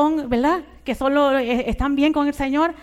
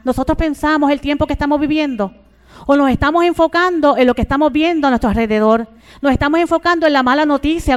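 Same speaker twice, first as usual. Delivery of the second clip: louder, driving sermon delivery; raised pulpit voice; fervent preaching; 4 dB louder than usual. Acted. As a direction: preach it out to the congregation.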